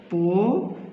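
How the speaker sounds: পরিক্ষা broken into three beats প রি ক্ষা, the ক্ষা said as khha; syllable by syllable. Shown as a demonstration. Teacher sounding out পরিক্ষা for cadet exam students, syllable by syllable. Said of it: "তখন হবে".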